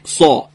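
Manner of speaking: سا as a full, dark Arabic sad; heavy emphatic s. Shown as a demonstration. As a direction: round the mouth and say سا heavily. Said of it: "بتونید درشتی اینو یه ذره بیشتر بکنید". («سا» درشت و پرحجم)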